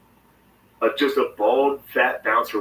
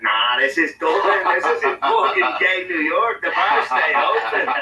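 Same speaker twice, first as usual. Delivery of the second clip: slow, higher, boastful put-on voice; cocky Irish guy; 5 semitones higher than usual. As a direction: lay it on like a swaggering local. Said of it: "He's like".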